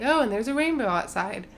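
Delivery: offhand mock announcement; flippant. Planner mentioning the rainbow to the wedding party, flippantly. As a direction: toss it out as a casual aside. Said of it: "he said it, like, flippantly".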